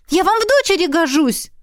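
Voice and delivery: put-on a scandalised young woman; shocked girl. A narrator's reading. Heroine protests.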